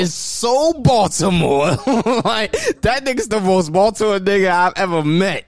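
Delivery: laughing. Real, not acted. Roasting a friend as most Baltimore, laughing. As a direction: crack up while roasting him.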